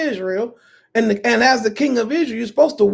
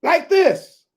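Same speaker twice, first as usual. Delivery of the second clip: put-on greedy girl's demand; 2 semitones higher than usual. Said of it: "She said".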